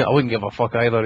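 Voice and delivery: ordinary talk, nothing marked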